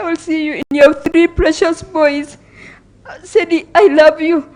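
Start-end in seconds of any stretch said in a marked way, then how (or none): 3.2-4.5 higher, louder, breaking into a sob; crying. Real, not acted. Sister saying farewell to her brother at his funeral, crying. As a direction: cry out the words to him.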